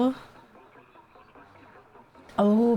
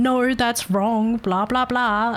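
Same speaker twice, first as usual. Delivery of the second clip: slow, dismissive "no, that's wrong"; mock snapping trainer; 3 semitones higher, much slower than usual. Mimicking the buddy scolding the new hire, dismissive. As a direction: imitate a trainer brushing someone off. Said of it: "do you really need to talk that way".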